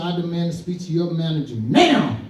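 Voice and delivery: mock-angry customer, punching the final word; retold huffy insistence; indignant demand. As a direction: act out a customer demanding action. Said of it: "Oh, she got pissed".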